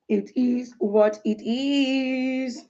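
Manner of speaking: "It is what it is" stretched very slowly, each word drawn out. Shown as a demonstration. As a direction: drag the words "It is what it is" out slowly and resignedly.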